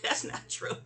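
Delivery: breathy whisper denial; hushed "that's not true"; whispered reply. Retold or imitated. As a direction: say it under your breath. Quiet reply amid laughter.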